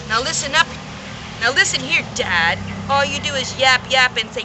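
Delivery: loud angry yell; furious loud rant at the Lorax. Acted. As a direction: yell him down. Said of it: "I yelled at the Lorax".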